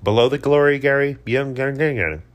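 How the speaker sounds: a bit tipsy, rambling; tipsy after a few drinks. Real, not acted. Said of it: "apologize for being so tipsy".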